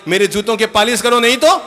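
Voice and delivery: loud, high barked order; bossy husband. Retold or imitated. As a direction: command the new wife. पति पहले दिन हुक्म देता. (पति का पत्नी पर रौब, ज़ोरदार हुक्म)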